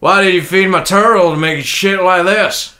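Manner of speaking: loud, slow American Southwest twang; American Southwest accent. Shown as a demonstration. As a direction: put on a broad Southwestern US accent. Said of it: "American Southwest".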